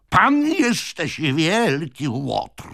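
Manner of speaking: high, slow, loud angry accusation; breathless with anger. A narrator's reading. Old man calls the other a villain, breathless with anger. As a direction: burst out, winded by rage. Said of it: "zadyszany od gniewu".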